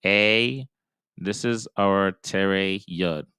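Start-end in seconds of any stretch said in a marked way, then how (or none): 0.0-0.7 "A" said as ay, lips spread as in hey; bright "A" vowel. Shown as a demonstration. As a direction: stretch the lips wide for "A". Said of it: "tere that goes a".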